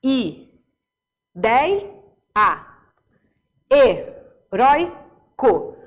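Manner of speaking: "ideia, heróico" broken up as i... dei... a, he... rói... co; syllable by syllable. Shown as a demonstration. Teacher separating syllables for students in "ideia, heróico", long pauses between them. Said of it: "Se a gente separar".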